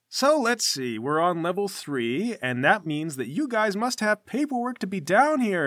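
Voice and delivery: lightly voiced chummy, testing boss; a touch of swaggering small talk; fake-jovial guild boss. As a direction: needle the newcomers with mild false cheer. Plays the fake-jovial armsman.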